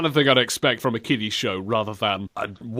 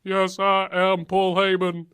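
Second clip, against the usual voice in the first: dopey slow voice; 6 semitones higher, slower than usual. Pretend. Dopey Brock reply.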